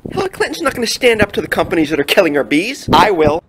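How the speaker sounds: loud and fast campaign pitch; fired-up pitch. Acted. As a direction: build to a loud, fast declaration. Skit, campaign pitch rising.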